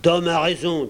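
mildly heated protest; rebellious pirate. Acted. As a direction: side openly with the rebel. Pirate sides against Silver.

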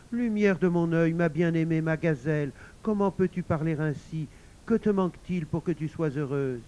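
lightly acted doting husband; coaxing husband. Husband coaxes sulking wife.

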